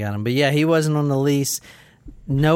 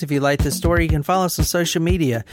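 podcast outro; faster than usual. Acted.

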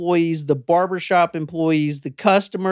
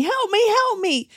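retold screaming for help. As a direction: imitate her cries for help. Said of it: "She starts screaming".

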